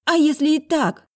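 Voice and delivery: high, loud defiant shout; high girl's shout, trying to break free. A narrator's reading. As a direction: scream it while struggling. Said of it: "закричала она".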